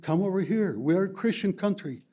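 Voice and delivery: welcoming America. Retold or imitated. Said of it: "United States said".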